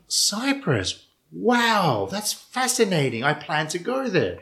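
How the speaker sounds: high-pitched imitation of wowed fascination; amazed stranger. Stranger hears the traveller is from Cyprus, mock amazement. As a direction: act out an impressed stranger, drawn out on the praise.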